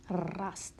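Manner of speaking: Rast said with a rolled, heavy Kurdish-style R; rast with a strong r. Shown as a demonstration. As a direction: roll the r in Rast. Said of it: "inte rest, utan rast".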